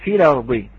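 Quranic recitation of في الأرض; في الأرض recited with care; recited demo. Shown as a demonstration. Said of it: "فنقول".

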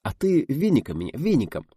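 high, playful coaxing, lightly hushed; affectionate whisper. A narrator's reading. Actor urges his partner to swat him, affectionately. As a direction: tease tenderly in confidence. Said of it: "шепнул Видов, ласково улыбаясь".

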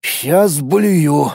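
whining. Acted. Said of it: "проныл я".

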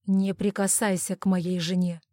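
understated menacing warning; a touch of protective threat; warning growl. Acted. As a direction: warn him off with a restrained growl. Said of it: "предупреждающе рыкнул Майло".

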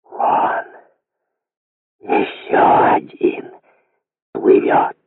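voiceless hiss, slow on ещё один; hissed whisper. A narrator's reading. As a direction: hiss it without voice. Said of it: "прошипел шерстяным голосом беззвучно".

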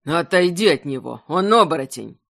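harsh shouted command; angry shout. Acted. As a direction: bark the order at her. Brother shouts at his sister.

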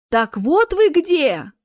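loud, high, drawn-out exclamation; slow, loud "gotcha" shout; accusing cry. A narrator's reading. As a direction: cry out on finding them. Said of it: "закричала Смерть".

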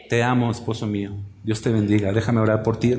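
mean every word to your husband; gently, with no mockery; sincere loving words. Shown as a demonstration. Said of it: "no lo hagas en tono burlón, ni echador".

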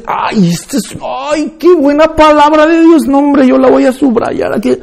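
high, swooning mock delight; lightly hammed-up excited Bible reader; mocking gushy believer. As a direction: parody a believer thrilled by a verse. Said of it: "ahí dices".

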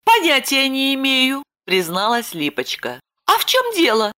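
put-on high young woman's voice, lightly eager; Lipochka reassuring. A narrator's reading. Lipochka telling Roman the bandit left, high voice. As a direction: pitch up into Lipochka.

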